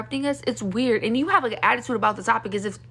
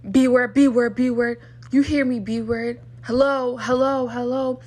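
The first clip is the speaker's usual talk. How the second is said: louder taunting calls of B word; mock heckling; 5 dB louder than usual. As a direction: imitate a guy jeering to get attention. Retold heckler shouting at her.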